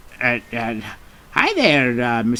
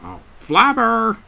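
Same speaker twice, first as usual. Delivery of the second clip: calling out; 10 semitones higher than usual. Acted. Calling Flubber to come meet someone.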